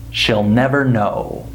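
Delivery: SHE'LL reduced to "shill"; weak SHE'LL, no EE sound; short I contraction. Shown as a demonstration. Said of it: "the way I'm pronouncing it".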